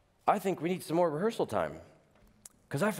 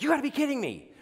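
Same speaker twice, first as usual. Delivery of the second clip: much higher, disbelieving cry; incredulous; 10 semitones higher, much faster than usual. Retold or imitated. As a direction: react in mock disbelief. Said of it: "I was like".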